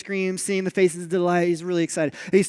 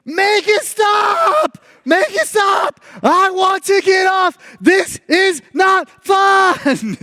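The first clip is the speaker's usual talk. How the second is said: put-on very high, loud, slow panicked kid's shriek; terrified child screaming; 11 semitones higher, 7 dB louder, much slower than usual. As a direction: scream to get off the ride. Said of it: "he starts screaming".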